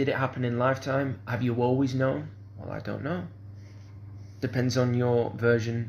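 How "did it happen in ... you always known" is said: ordinary delivery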